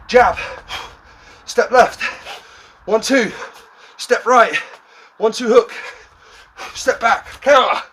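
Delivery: loud, high coach calls; shouted commands. Real, not acted. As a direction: drive them with loud combo calls. Coach calling boxing combos.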